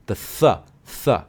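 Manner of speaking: isolated "th" with tongue between the teeth; teacher's separated "th" sound; demonstrating the th sound. Shown as a demonstration. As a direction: say "th" on its own, twice, as a teacher. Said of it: "very difficult sound in English is the sound".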